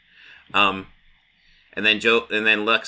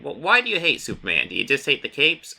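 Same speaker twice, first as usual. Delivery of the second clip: teasing Joker question; 6 semitones higher than usual. Retold or imitated. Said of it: "he's asking".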